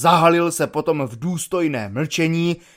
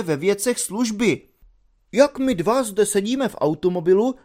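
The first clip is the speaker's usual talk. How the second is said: higher, precise lecturing cadet voice; pedantic cadet; 6 semitones higher than usual. Acted. The cadet coolly corrects the lieutenant, higher and pedantic. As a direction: lecture him coolly, point by point.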